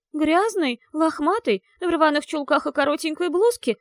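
high, loud, wheezing with a gurgle; hoarse gurgle. Acted. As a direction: croak it with a wet throat. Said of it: "прохрипела Софи с бульканьем в горле".

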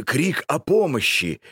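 anguished cry. Acted. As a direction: break into a pleading cry. Old man pleads.

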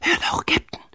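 hushed stage whisper; Pitt whispering. A narrator's reading. Boy alerts the captain to listen, whispering. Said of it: "flüsterte er".

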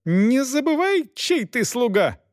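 high, commanding lady's cry; shrill order. A narrator's reading. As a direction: forbid it from the carriage. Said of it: "закричала из кареты Элеонора Августа".

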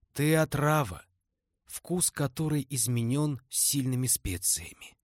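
lightly voiced old crone, solemn; old woman prophesying. Dying crone's prophecy to girl.

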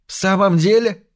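выше и громче, радостно взвизгнуть; вскрикнуть от радостного изумления; радостный визг. A narrator's reading. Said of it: "Линда завизжала так громко". (дочь взвизгивает в трубку, услышав добрую весть)

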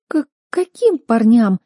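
anxious stammering question. A narrator's reading. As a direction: stammer it out in alarm. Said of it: "взволнованно спросила сестра, заикаясь".

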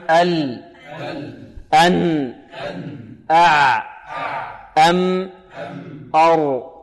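ال، أن، أع، أم، أر one at a time, pause after each; medium letters drill. Shown as a demonstration. Quran teacher leads students, pronounce with me, medium letters drill. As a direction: sound each closing consonant briefly for repeating. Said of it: "انطقوا معي".

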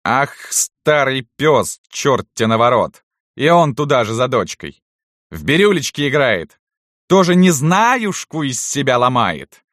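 high, loud, gleeful jeering; mock the old servant spitefully, stretching the insults; venomous exclamation. A narrator's reading. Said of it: "ехидно воскликнула Салтычиха". (ехидно восклицая)

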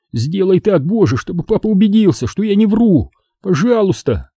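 high-pitched fervent plea; silent praying. A narrator's reading. Boy prays his father will believe him, silent praying. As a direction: beg desperately to be believed. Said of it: "молил я про себя".

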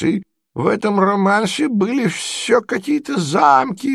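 put-on high, wistful old man remembering; dreamy old prince. Prince tells Mozglyakov of the song, dreamy and high. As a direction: drift into a sweet memory, high.

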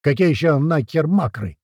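mild narrated outburst; exploding anger. A narrator's reading. Sergeant blowing up at the blond recruit, lightly voiced. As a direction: snap at the smug answer. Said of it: "взорвался Полос".

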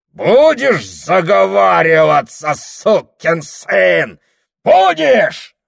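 громко, последнее Будешь срывается вверх; дави угрозой; грозный рёв. Acted. Ферапон грозит с кулаками. (пьяный Ферапон орёт на Прохора)

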